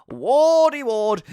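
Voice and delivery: excited call. Acted. Fantasy football pick, calling name.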